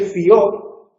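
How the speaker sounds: "fió" in a single syllable, stress on the final o; one syllable. Shown as a demonstration. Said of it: "Este es monosílabo y no lleva acento". ("fió" en una sola sílaba, acentuado al final)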